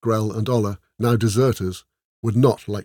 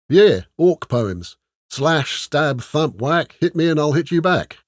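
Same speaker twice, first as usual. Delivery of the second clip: a hint of a gruff orc, slow start; slow, blunt orc bragging; lightly voiced orc; 6 semitones higher, 5 dB louder, slower than usual. A narrator's reading. Grell the orc answers about orc poems, a hint of gruffness.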